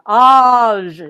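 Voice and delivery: "age" alone, loud and drawn out; isolated stressed ending "age"; stressed last syllable. Shown as a demonstration. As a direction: hold "age" long, full voice. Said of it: "from that tonic stress".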